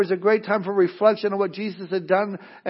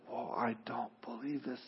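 stunned disbelief; 6 semitones lower, 20 dB quieter than usual. Acted. Egyptians waking to dead firstborn.

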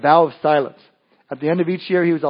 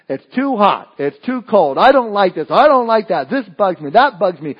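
chronic griper; 3 semitones higher, 5 dB louder than usual. Retold or imitated. Mimicking a chronic complainer.

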